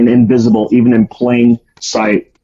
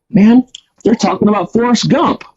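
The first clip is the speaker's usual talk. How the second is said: Southern drawl imitation; 8 semitones higher than usual. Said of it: "they were all talking just like this".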